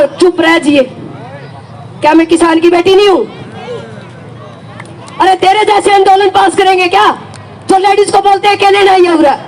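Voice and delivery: retold angry telling-off, rising to a half shout; indignant reply to a rude young man; angry retort. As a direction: snap back at the boy in anger. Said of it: "मैंने इतना गुस्सा आया भाई साहब".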